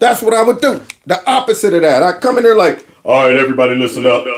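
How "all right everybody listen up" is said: very deep, very low, bass-heavy voice. Demonstrating coming in with bass in the voice, deep voice with bass. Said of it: "you're listening to bass in the voice".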